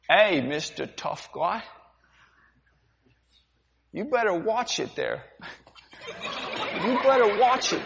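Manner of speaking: menacing with a laugh; laughing threat. Acted. Sailor threatening the captain, laughing menace. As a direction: threaten him while chuckling. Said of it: "The demonstration".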